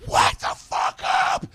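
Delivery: slow, rough mock yell; drunk yell. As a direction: bellow it slowly at a sleeper. Comedian yells at sleeping woman.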